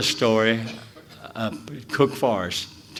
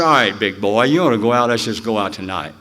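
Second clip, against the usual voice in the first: teasing challenge; 6 dB louder than usual. Retold or imitated. Woman challenges him.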